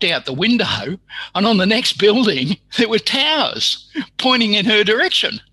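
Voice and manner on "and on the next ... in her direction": louder, higher, laughing through the words; laughing disbelief. Real, not acted. Telling a listener about the towers, laughing louder. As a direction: laugh as you reveal the twist. Punchline of surprising measurement story.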